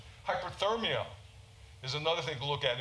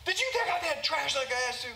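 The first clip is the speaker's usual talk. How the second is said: higher, louder nasty snap at husband; 11 semitones higher, 4 dB louder than usual. Retold or imitated. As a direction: accuse him sharply, much higher and louder. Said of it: "in a nasty tone of voice".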